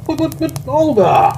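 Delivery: high-pitched, spluttering dismay; splutter, then cry out her name; stammered protest. Acted. Colonel rejected by Olga, stammered high protest. Pleading as she refuses him.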